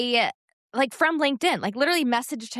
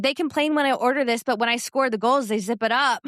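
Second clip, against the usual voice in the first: lightly put-on Norwegian accent, higher pitched; quick, raised-pitch mock Norwegian accent; imitated Norwegian accent; 4 semitones higher, 3 dB louder, faster than usual. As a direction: do a cute little Norwegian accent. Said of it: "cute little accent".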